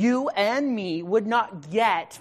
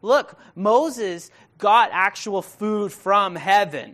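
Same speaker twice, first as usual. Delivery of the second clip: mock cheeky crowd; 3 semitones higher, 9 dB louder, much slower than usual. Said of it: "so they're saying".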